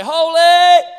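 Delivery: high ringing cry of awe; loud worshipful cry. Retold or imitated. Creatures crying before God, loud awed cry. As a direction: call it out like a heavenly creature. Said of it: "living creatures to cry".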